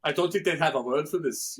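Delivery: lightly voiced German accent; a touch of a German friend musing. Imitating a German friend doubting a translation, light German accent. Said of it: "it's a German accent".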